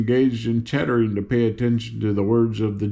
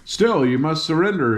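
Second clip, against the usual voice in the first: fierce; 4 semitones higher than usual. Acted. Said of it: "exclaimed the general fiercely".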